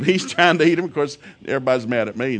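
normal talking voice

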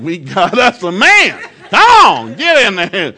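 loud, high hype-up cheer; proud dad cheering on his son's big bowl. Retold or imitated. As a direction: whoop it up like a proud father. Cheering son at the table.

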